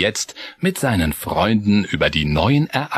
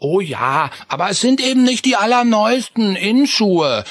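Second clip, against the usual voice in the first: mild sigh; 11 semitones higher than usual. Acted. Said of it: "seufzte Chris".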